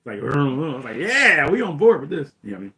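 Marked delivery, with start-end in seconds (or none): 1.0-2.3 higher, louder thrilled fan; excited cheer. Retold or imitated. Recalling a favorite chase as a kid, excited cheer. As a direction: whoop it like a won-over kid.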